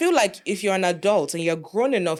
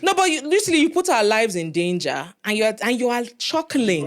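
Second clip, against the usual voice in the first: retold fury; 4 semitones higher than usual. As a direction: tear into him for laughing. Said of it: "'Cause I was just like".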